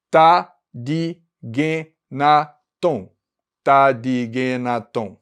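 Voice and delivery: Tadigenaton spelled out slowly; slow demo. Shown as a demonstration. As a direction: say tadigenaton syllable by syllable. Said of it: "dividir esse pulso em cinco partes". (tadigenaton bem devagar)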